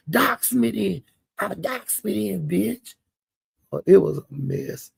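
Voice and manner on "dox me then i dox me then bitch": high, slurred imitation of a drunk taunt; mock drunk dare. Cupcake drunkenly daring eighty-eight, imitated high and slurred. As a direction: dare him in a put-on high drawl.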